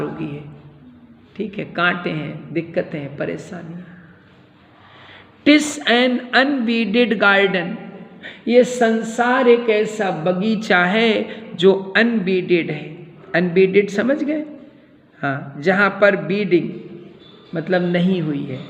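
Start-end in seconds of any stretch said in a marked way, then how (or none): 5.5-13.1 slow, measured reading aloud; declaimed verse. Acted. Teacher reads Hamlet's garden image to students, declaiming. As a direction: give each word room and weight.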